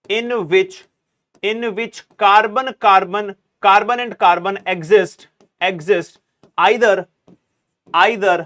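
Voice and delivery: very slow dictation, each phrase repeated with pauses. Shown as a demonstration. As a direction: spell it out slowly for students to write. Teacher dictates definition. (धीमे-धीमे लिखवाना, हर टुकड़ा दोहराकर)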